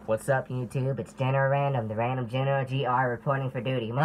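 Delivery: chirpy helium voice greeting; helium-squeaked intro. Real, not acted. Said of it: "my voice is high. It's on helium".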